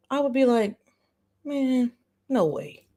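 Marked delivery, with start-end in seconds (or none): none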